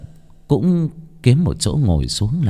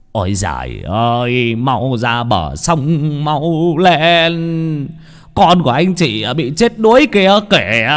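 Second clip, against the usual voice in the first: out of breath, slow at first, then higher and more urgent; breathless urgency; 5 semitones higher, 3 dB louder, much slower than usual. A narrator's reading. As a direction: gasp out the bad news, rising to high alarm. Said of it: "Ông hối hả, thở không ra hơi".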